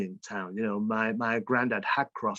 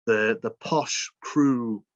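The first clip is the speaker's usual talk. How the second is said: posh Crewe; slower than usual. Shown as a demonstration. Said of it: "the way I speak".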